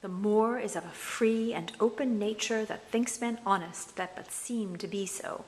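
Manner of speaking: slow, scheming Iago recitation; villain Iago musing on the Moor; Iago's speech. Shown as a demonstration. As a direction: read it as sly Iago plotting. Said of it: "one of Nasty Iago's speeches".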